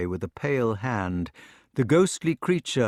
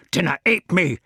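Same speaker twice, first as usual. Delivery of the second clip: loud, raised Scots shout; 7 semitones higher, 6 dB louder than usual. Acted. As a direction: yell it at the mocking brother. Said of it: "he shouted".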